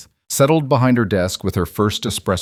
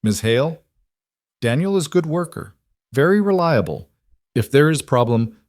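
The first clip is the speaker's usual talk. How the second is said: lightly voiced French chef, higher; a hint of a Lyon chef's accent; thick French accent; 6 semitones higher than usual. A narrator's reading. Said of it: "he said in his thick accent".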